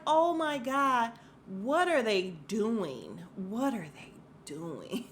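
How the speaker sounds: drawn-out, slow disbelief; dumbfounded, dragging every word; incredulous. Retold or imitated. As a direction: stretch it out in aghast disbelief. Recap host's incredulous reaction quote.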